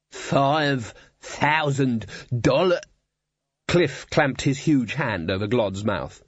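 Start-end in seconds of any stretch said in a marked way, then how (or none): 0.1-2.8 shocked. Acted. Dwarf shocked at sum.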